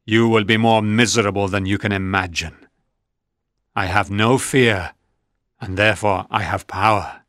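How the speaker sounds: a lonely creature swearing revenge; mildly angry monster vowing revenge on Frankenstein. Acted. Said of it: "The monster looked at me angrily".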